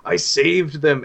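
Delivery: high, loud, raving cry; manic madman. Acted. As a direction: shout it like a crazed man proud of his deed. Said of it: "And he keeps repeating".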